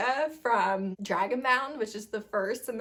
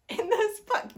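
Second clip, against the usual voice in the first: voice cracking; 11 semitones higher than usual. Real, not acted. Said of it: "My voice is cracking".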